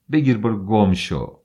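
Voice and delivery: loud, spat out; angry dismissal. Acted. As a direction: fling the words at him. Wife throws ornaments, shouts. (فریاد خشمگین)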